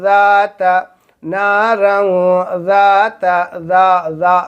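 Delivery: deliberate ذات, buzzing dh not j; correct dhaal. Shown as a demonstration. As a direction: model ذات with a long vowel. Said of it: "ذال نکالنی ہے".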